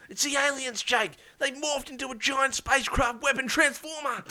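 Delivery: high-pitched urgent character voice; alarmed announcement. Acted. Spy warning the captain about the alien transformer, high alarmed voice. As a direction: burst in with the alarming news.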